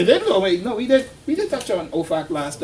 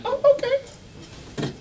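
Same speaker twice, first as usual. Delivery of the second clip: mock sarcastic okay; much slower than usual. Sarcastic retold acceptance.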